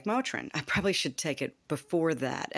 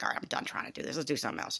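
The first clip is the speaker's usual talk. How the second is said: softer, half-whispered resignation; muttered giving up; 5 dB quieter, much faster than usual. Retold or imitated. Giving up on the exercise, soft half-whispered resignation. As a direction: drop the voice as you quit. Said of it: "I'm like".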